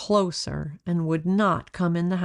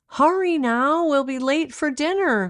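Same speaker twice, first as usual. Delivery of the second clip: higher, louder call across the beach; 9 semitones higher, 4 dB louder than usual. A narrator's reading. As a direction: call her back from a distance. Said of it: "called her mother".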